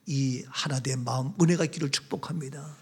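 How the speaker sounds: ordinary talk, nothing marked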